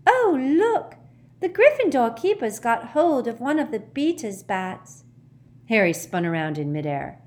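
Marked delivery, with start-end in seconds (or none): 0.1-5.0 high, loud, far-away commentary; excited, wandering commentary in a high voice; dotty match commentator. A narrator's reading. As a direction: call out a curious sight, pitched high.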